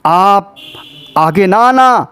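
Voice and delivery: Zainab. Retold or imitated. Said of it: "تو حضرت زینب نے کہا".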